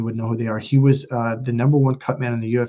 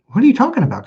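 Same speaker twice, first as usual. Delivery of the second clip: baffled question; 11 semitones higher, 5 dB louder, much faster than usual. Retold or imitated. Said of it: "I'm like".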